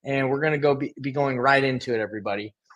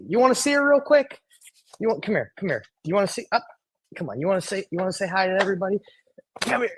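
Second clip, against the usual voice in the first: higher, coaxing pet voice; talking to the dog; 3 semitones higher, faster than usual. Real, not acted. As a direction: coax the dog over to say hi. Coaxing his dog on camera.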